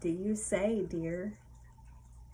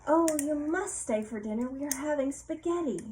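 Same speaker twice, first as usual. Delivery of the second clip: the Queen; 6 semitones higher than usual. Acted. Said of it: "She says".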